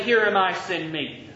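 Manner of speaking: tossed-off, careless Here am I, fading on send me; flippant. Shown as a demonstration. Pastor mocking a careless volunteer, offhand. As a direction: throw it away like it costs nothing. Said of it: "Just flippantly".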